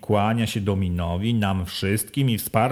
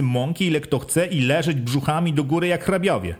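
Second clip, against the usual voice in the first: lightly voiced wójt, a bit higher and pressing; a hint of a bossy village head; village head questioning; 3 semitones higher than usual. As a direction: quiz the villagers like a sly official. Wójt's speech to villagers.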